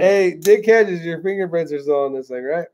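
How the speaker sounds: light put-on Hispanic accent. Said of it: "I love that Hispanic accent".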